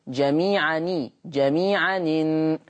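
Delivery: slow جميعًا إن run together as جميعانِن; slow recitation demo of جميعًا إن; hamza transfer demo. Shown as a demonstration. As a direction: glide the hamza's kasra onto the nunation slowly. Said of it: "يأخذ حركة الهمز".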